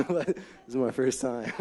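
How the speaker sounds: laughing through the words; embarrassed little laugh; nervous laugh. Real, not acted. Laughs at own nervous stumbling.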